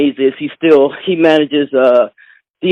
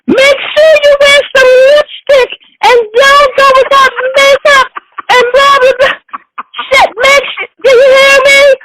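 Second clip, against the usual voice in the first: high, shrill-pitched motherly nagging; fussing mother. Retold or imitated. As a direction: nag like an excited mom on the phone. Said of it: "My mother is, is talking about".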